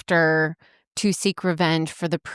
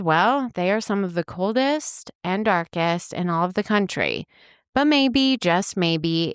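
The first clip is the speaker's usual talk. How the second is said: spooky narration. Acted. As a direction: tell it like a campfire horror tale. Spooky podcast intro narration.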